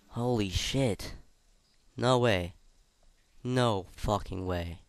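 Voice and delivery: stunned disbelief. Real, not acted. Shocked at the dead president.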